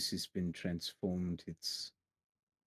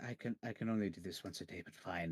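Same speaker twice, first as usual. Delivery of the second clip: soft, sighing reluctance; resigned sigh; 6 dB quieter than usual. Acted. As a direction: give in with a quiet sigh. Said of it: "will just sigh and be like".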